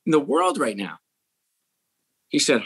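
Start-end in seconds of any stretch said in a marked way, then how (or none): 0.0-1.0 pitched up high in disbelief, defending himself; you can't be serious, I set up the biggest boy band; indignant retold outburst, raised pitch; incredulous protest. Retold defensive reply to boss.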